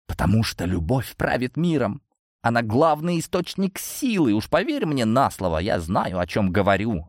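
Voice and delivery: ordinary delivery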